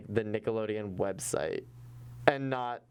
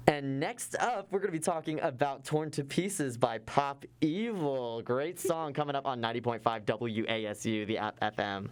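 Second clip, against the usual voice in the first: DJ break voice; 2 semitones higher than usual. Acted. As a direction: sell the next song like a DJ. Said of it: "you can hear me in, like, my D J breaks".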